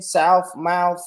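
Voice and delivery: "South, mouth" said as souf, mouf; country F endings on "South" and "mouth". Shown as a demonstration. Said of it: "my T H is, is a F".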